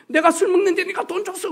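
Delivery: high, slurring mock drunk retort; drunk man voice. Preacher mimics a drunk man's retort, high belligerent mock voice. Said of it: "그러니까 이분이".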